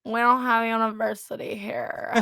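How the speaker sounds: exaggerated American, stretched-out words; American impression. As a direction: ham up a broad American accent. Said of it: "There's my best American impression".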